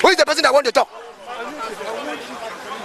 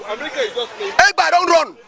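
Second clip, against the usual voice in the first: slow drawn-out; 3 semitones higher, much slower than usual. Shown as a demonstration. Mocking critics of Biafra, drawn out very slowly. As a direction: stretch every word of Egba don't run very slowly.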